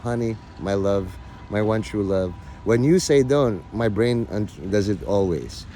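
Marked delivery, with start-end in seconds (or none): 0.0-2.3 soft pleading honey voice; quoting the wife, softly tender; mock tender wife. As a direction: coo it like a doting wife. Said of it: "is like".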